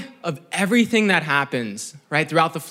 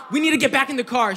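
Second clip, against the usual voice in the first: hurried, higher-pitched panicky mom; mock panic; 6 semitones higher, much faster than usual. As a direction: imitate mom rushing everyone in a fluster. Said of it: "she's panicking".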